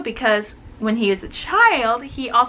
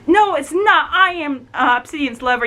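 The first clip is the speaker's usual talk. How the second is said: higher, louder indignant claim; indignant Ivy; 4 semitones higher, 3 dB louder than usual. Retold or imitated. Ivy insisting to the others she is the lover, mock indignant. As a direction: insist like a jealous rival. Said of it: "It's like".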